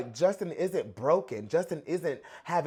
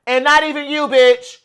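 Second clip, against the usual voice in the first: retold boast; 6 semitones higher, 11 dB louder than usual. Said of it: "He said".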